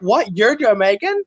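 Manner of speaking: mock indignant disbelief; triggered. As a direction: imitate someone taking mild offence. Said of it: "they'll be all triggered".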